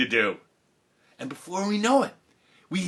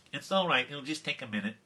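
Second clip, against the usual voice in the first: lightly voiced intercom secretary; soft reply as if through a speaker; PA announcement; 7 dB quieter than usual. Secretary reassuring teacher over the PA, lightly voiced announcement. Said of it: "announcement came over the P A system".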